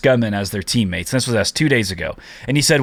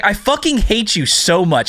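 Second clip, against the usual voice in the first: higher, playful fed-up groan; joking hatred between buddies; mock exasperation; 9 semitones higher than usual. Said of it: "He's like".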